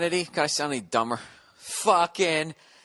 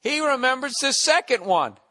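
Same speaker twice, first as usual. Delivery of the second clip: put-on announcer presenting an old man; 7 semitones higher than usual. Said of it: "they'll come wheeling me out".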